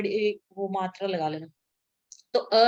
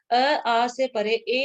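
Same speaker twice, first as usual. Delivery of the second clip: slow dictation; 3 dB louder, much slower than usual. Shown as a demonstration. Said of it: "teacher spells out the rule".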